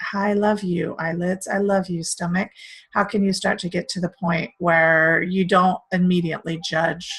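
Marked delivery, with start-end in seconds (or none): 0.1-2.5 tender self-talk. Shown as a demonstration. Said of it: "really feel into that and love that".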